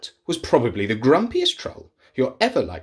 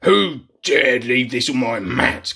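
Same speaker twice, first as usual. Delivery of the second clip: growled; 4 dB louder than usual. Acted. Grumpy troll growling at an invitation. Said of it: "growled the Grunt".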